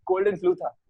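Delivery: realising aloud. Retold or imitated. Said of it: "फिर मेरे को लगा".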